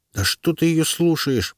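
медленно, высоко и ворчливо; проворчать как сердитая белка; ворчливая белка. A narrator's reading. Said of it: "проворчала белка". (ворчливый голос белки)

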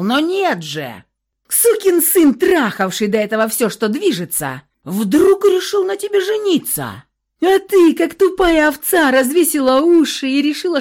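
loud, high enraged yelling; furious shout. A narrator's reading. Husband screaming abuse at his wife. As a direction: scream the insults at her. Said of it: "Андрей перешёл на крик".

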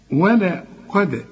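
قد with a bounced, echoing d; slow ولا قد, light lam, released d; qalqala on dal. Shown as a demonstration. Teacher corrects student, قد ending with bounced dal. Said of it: "هنقلقلها".

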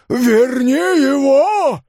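very high, loud, slow scream; desperate shout. Acted. Father screaming at the hero to bring the horse back, desperate shout. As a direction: try to force it with one shout. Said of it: "повторил он, ... одним криком".

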